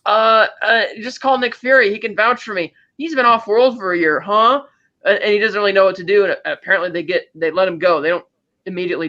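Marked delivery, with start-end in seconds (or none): 0.1-4.6 higher imitation of a flustered plea; mildly hammed-up desperate excuse. Peter to the police about the drones, mock desperate. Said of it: "Peter's trying to desperately tell him".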